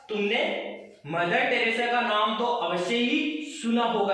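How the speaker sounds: "अवश्य ही" pressed hard; emphatic stress. Shown as a demonstration. Teacher demonstrating emphasis to the class, pressing "अवश्य ही". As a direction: insist on "अवश्य ही". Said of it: "यहाँ पे जोर डाल रहे हैं".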